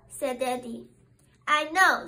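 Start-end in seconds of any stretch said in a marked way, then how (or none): 1.5-2.1 bright eager "I know"; excited. Acted. Little squirrel telling Daddy, excited. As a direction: burst out with excitement. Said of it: "said little squirrel excitedly".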